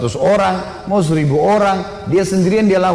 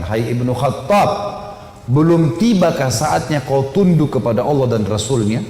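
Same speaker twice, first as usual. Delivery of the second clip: solemn admonition; 3 semitones lower than usual. Acted. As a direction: summon him gravely to submit. Prophet shakes Umar, admonishing.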